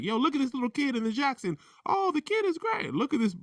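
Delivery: high, excited hype voice; hype man. Retold or imitated. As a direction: hype up the kid star. Hyping up a kid singer.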